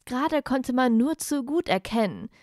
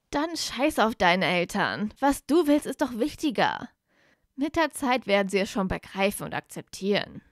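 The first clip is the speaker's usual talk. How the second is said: half-shouted at his best friend; urging him hard, voice raised; near shout. Acted. Blaise half-shouts at Draco to defy his parents, forceful. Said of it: "schrie Blaise seinen besten Freund fast schon an".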